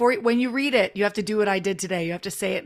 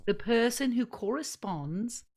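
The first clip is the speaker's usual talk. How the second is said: British accent; 6 dB quieter than usual. Shown as a demonstration. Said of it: "repeat it in British".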